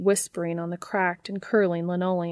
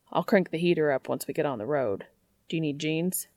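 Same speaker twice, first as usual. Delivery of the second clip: a hint of gruff Dean, quicker pace; lightly voiced Dean; 3 semitones lower, faster than usual. Dean offering Cass the heater and jeans, lightly voiced. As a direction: Dean played down, covering his feelings.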